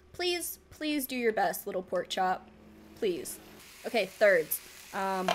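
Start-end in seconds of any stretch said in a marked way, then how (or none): 0.1-3.4 softer, lower, slow begging; pleading softly. Real, not acted. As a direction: coax the pork chop gently. Pleads with pork chop.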